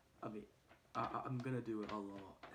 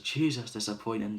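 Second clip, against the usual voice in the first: scornful; 14 dB louder than usual. Retold or imitated. Coach's scornful verdict.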